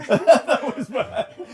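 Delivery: giggling echo of the quote; laughing repeat. Real, not acted. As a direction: crack up while echoing it.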